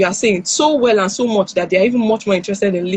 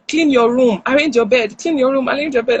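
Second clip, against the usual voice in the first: nagging; 3 semitones higher than usual. Retold or imitated. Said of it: "telling your child over and over again".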